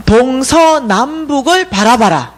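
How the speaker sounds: slow, deliberate retold command; dream messengers' command. Dream visitors tell her to look around, slow command. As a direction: give a measured, drawn-out order. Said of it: "이러는 거예요".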